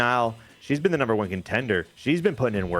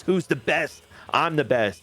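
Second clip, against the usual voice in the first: mock gloating, pitched up; boastful wrestler; 5 semitones higher than usual. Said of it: "and says".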